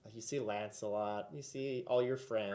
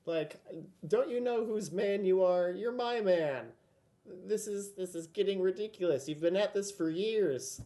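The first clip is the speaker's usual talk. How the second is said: exasperated queen scolding her man, higher and louder; higher-pitched, fed-up royal telling-off; raised voice; 7 semitones higher, 6 dB louder than usual. Acted. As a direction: scold in a raised voice, short of screaming. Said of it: "just, like, a raised voice".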